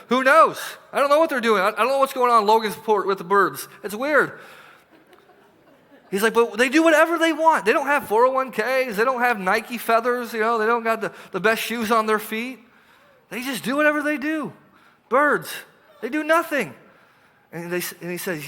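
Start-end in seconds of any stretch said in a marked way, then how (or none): 6.3-16.8 playful amusement. Acted. Jesus voiced playfully about birds.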